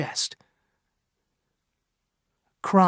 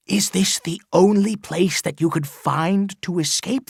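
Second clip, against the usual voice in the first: a lightly voiced old man, higher, mocking; taunting Chillingworth; 5 semitones higher, 4 dB louder than usual. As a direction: sneer at the priest's choice of refuge. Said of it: "whispered Chillingworth".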